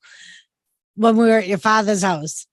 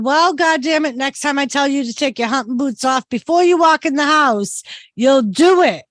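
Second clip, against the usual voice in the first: a raised, joking scold at the husband; half-playful telling-off, pitched up; mock scolding; 4 semitones higher than usual. To her husband in front of the ER nurse, mock scolding.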